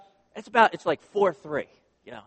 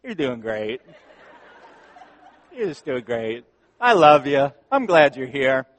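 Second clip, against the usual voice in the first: put-on God gently reassuring his struggling child, with a laugh; 4 dB louder than usual. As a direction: reassure kindly through a chuckle. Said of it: "He's like".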